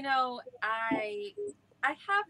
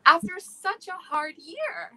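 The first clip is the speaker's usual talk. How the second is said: real tears rising, voice catching; getting emotional; 7 semitones higher, 3 dB louder than usual. Real, not acted. Actress tearing up live about a hard year, voice breaking. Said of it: "I can't believe I'm getting emotional".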